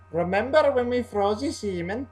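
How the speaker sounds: mock German accent, delivered deadpan; terrible German accent. Reviewer imitating Frau Farbissina, bad German accent. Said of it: "probably a terrible German accent".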